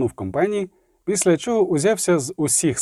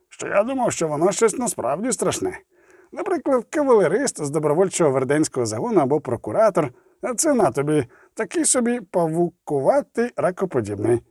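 a hint of a dwarf passing remarks; talkative dwarf; 3 semitones higher than usual. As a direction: chatter on as an unimpressed dwarf. Voices Zoltan, a talkative dwarf.

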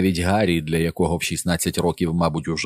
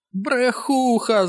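high drawn-out mother's scream; mother yelling at Liz; screaming Mrs Dulin; much slower than usual. A narrator's reading. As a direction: scream the insult slowly. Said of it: "закричала місіс Дулін".

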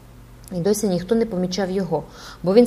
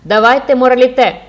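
loud, higher crowd cry; crowd echoing; 5 semitones higher, 10 dB louder than usual. A narrator's reading. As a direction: echo the demand like a mob. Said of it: "вторував натовп".

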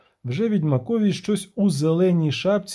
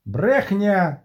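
mild shout; 3 semitones higher than usual. Acted. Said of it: "крикнув Трубадур".

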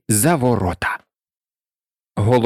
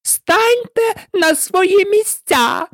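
slow, very high screamed command; piercing drawn-out queen's yell; thunderous shout; much slower than usual. A narrator's reading. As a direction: bellow the order, stretching each word. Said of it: "закричала королева громовим голосом".

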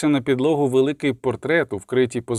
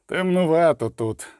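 loud and bold; 4 semitones higher than usual. A narrator's reading. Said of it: "крикнув Пугач голосно і сміливо".

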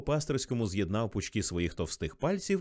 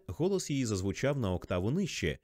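usual speaking voice

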